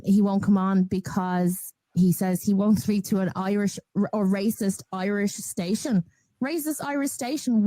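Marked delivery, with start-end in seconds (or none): 6.4-7.7 outraged disbelief, pitched up; incredulous echo. Real, not acted. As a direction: repeat it back much higher, stunned. Echoes the phrase in disbelief.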